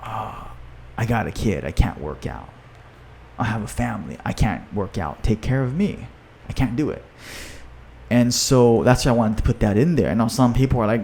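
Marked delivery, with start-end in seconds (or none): 0.0-7.0 imitating a gloomy client who won't exercise; mopey excuses. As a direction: sulk it out like a defeated excuse-maker. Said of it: "instead of the opposite".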